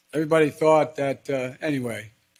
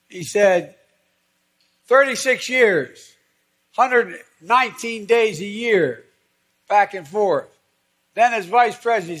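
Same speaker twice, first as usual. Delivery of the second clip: animated quote; 7 semitones higher, 6 dB louder than usual. Retold or imitated. Conductor tally quote.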